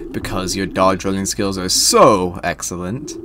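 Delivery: lightly voiced theatrical tutor; a hint of grand storytelling; Sir Manuel. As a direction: read it as a slightly pompous instructor, mostly low. Plays Sir Manuel reading game dialogue.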